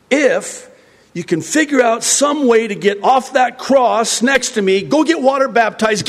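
high, loud impassioned sermon; fiery preaching. Acted. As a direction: preach it with rising fervour. Preaching at full force.

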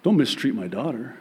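ordinary delivery

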